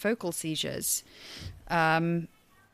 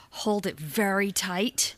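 slow hushed whisper; slower than usual. Pretend. Coaching friends to savor a moment, slow whisper. Mock mindfulness, whispered slowly.

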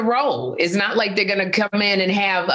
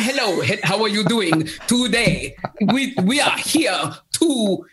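fake Botswana accent. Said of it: "I don't know what I sounded like".

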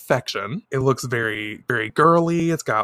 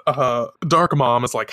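ordinary talk, nothing marked

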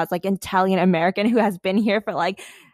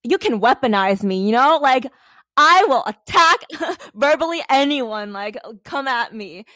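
fired-up threat; 4 semitones higher, 3 dB louder than usual. Retold or imitated. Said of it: "I'm like".

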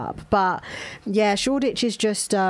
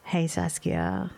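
flirty chat-up voice; 5 dB quieter than usual. Pretend. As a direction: ease into a smooth flirt. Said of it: "what you saying just went up a slightly".

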